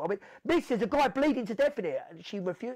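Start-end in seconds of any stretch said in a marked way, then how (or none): 0.4-2.0 high, loud desperate plea; retold urgent shout to the officer. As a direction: yell through the door for help.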